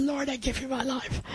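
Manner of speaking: softly retold heartfelt prayer; from the heart. Woman retelling her surrender to the Lord, quietly heartfelt. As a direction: recall the prayer softly, trailing very low. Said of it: "It's just from my heart".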